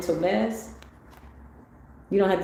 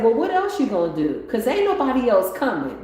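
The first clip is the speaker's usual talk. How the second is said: inner voice arguing; 6 semitones higher, 4 dB louder than usual. Retold or imitated. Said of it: "the conversation I was having with myself".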